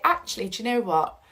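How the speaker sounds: calm acceptance. Retold or imitated. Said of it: "make peace with it".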